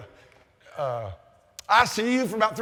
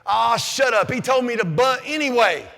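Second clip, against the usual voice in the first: retold angry retort; 4 semitones higher, 4 dB louder than usual. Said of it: "I got just pissed off".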